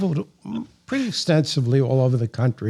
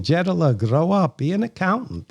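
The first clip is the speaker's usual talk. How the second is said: put-on higher-pitched Yiddish-accented grandmother; lilting Yiddish accent, pitched up; grandmother's Jewish accent; 5 semitones higher than usual. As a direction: imitate an immigrant Jewish grandmother. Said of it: "with her Jewish accent".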